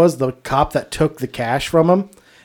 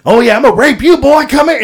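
higher, louder mock leer; retold taunt; 8 semitones higher, 6 dB louder than usual. Billy taunting the man who challenged him, hammed-up leer. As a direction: ham up a creepy taunt, laughing. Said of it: "and just".

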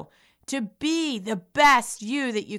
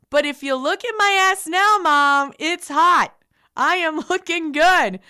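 proud laughing boast; 5 semitones higher, 6 dB louder than usual. Real, not acted. Boasting about her new body.

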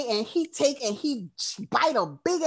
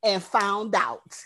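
laughing taunt; 4 semitones higher, slower than usual. Retold or imitated. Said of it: "it was like".

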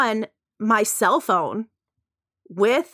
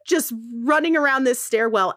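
ordinary talk

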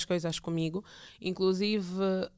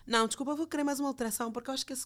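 fussy client; 4 semitones higher, 3 dB quieter, much faster than usual. Retold or imitated. Mimicking a fussy client's requests.

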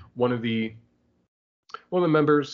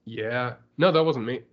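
absent-minded replies. Retold or imitated. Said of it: "he's doing that thing where".

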